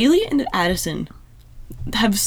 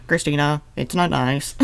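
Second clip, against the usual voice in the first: mock George; 7 semitones lower, 4 dB quieter than usual. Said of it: "I just like".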